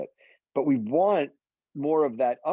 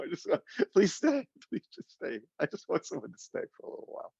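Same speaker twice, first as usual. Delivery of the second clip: half-laughing mock plea to stay; acted clinginess with a laugh; light pleading; 6 semitones higher than usual. Voicing someone clinging to company.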